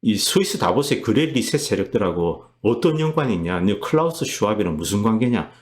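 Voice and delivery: mildly indignant, demanding questions; imitated confrontational questioning. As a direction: act out a lawmaker grilling the prime minister. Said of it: "이렇게 따지는 겁니다". (의원이 따져 묻는 흉내)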